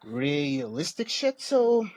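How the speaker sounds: soft, quiet, sheepish sorry; sheepish apology. Real, not acted. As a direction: mumble the apology, embarrassed. Sheepish apology after scolding.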